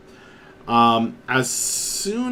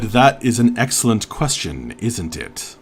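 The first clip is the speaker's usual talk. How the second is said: "that is an excellent question" said louder; louder repeat; 4 dB louder than usual. Real, not acted. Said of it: "I said".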